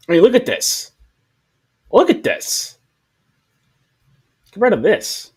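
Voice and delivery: loud, high-pitched disbelief; exasperated outcry. Real, not acted. Reviewer appalled by the worst drawing, exasperated outcry. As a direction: cry out in appalled protest, voice jumping up. Disgusted rant at bad drawing.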